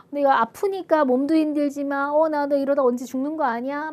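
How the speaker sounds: mildly acted worry after a gasp; anxious. Sick person imagined fearing they may die, anxious. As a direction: fret aloud, mock anxious. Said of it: "막 이, 이런 불안함".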